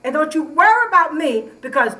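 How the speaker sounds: heated retort. Real, not acted. Neighbor quarrel, heated retort.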